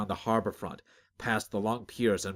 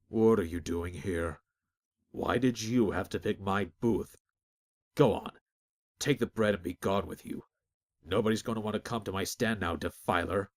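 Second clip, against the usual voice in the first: wary baker. Acted. Baker fearfully sends Azric away.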